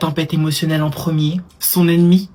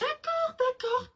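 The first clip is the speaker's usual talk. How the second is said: high placating; 11 dB quieter, much slower than usual. Acted. Mother placating screaming child.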